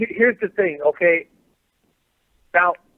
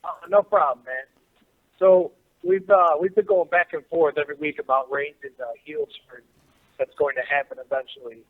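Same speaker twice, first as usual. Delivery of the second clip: faint, far from the phone; talking away from the phone; phone held away. Real, not acted. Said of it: "I can't hear you very well".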